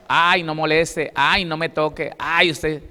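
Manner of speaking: whiny mock wife, slow on the first ay; imitating a fed-up wife waving him off; preacher imitating a wife pushing her husband away, mildly whiny; scornful brush-off.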